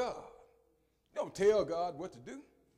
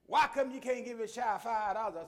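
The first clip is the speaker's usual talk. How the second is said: scolding mama; 5 semitones higher, 4 dB louder than usual. Retold or imitated. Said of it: "my mama with her hand on her hip".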